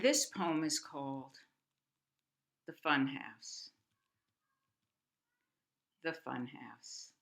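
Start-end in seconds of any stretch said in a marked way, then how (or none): 6.0-7.1 poetry reading. Acted. Reads third poem aloud.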